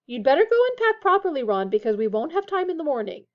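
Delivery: high, loud motherly order, easing off; calling out. A narrator's reading. Missus Weasley calls down the table to Ron, calling out. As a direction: call it down the table. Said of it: "Missus Weasley called down the table".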